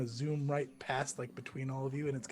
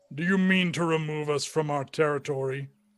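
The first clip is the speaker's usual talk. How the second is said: loud, big, booming creature voice; 2 semitones higher, 6 dB louder than usual. Answering an inspector who came to ask questions, booming voice. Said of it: "It's got like a really booming voice".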